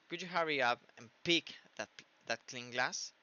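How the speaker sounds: "that clean glass" with the T of "that" turned into K; connected speech demo. Shown as a demonstration. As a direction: link "pick that clean glass", N of "clean" sliding into G. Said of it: "si ustedes esto lo dicen rápido". (demostración de habla enlazada, "that" suena "dak")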